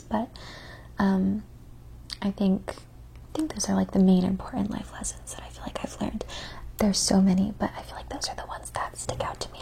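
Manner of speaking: soft ASMR whisper. Acted. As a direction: whisper close to the mic.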